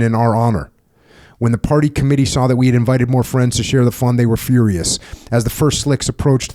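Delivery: steady memoir narration, read aloud; book reading. Acted. Host reading his book to the veteran, steady narration. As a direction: read the war memoir passage evenly.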